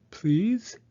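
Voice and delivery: pleading. A narrator's reading. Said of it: "Bear said".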